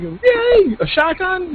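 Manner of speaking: giddy mock cheer he says an older guy shouldn't do; mock excited squeal. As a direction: squeal it like an overexcited kid. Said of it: "I can't be like".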